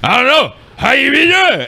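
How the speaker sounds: mock rambling storyteller. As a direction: imitate him drifting off mid-story. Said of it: "involved going".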